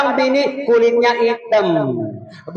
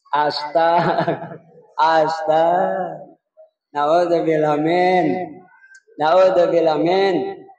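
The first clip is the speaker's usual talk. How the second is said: dismay; 4 semitones lower, slower than usual. Acted. Preacher's dismayed exclamation.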